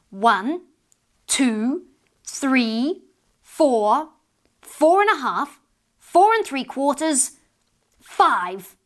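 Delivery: mock-stern countdown to five. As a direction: count to five like a mother losing patience. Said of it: "her voice would become stiff and sharp".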